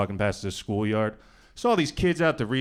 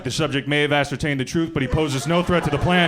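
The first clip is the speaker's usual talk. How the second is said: a hint of a formal secret agent, a touch louder; mock spy report; 4 semitones higher, 6 dB louder than usual. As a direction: report it like a covert operative. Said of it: "I was like".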